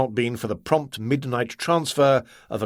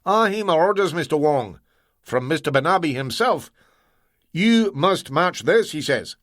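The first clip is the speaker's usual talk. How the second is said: higher, firm Scots insistence; Scottish accent; 5 semitones higher than usual. Acted. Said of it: "phony accent".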